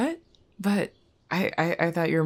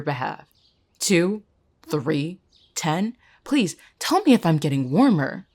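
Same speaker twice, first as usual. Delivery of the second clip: scornful taunting. Acted. Jess taunts Emerson with guesses.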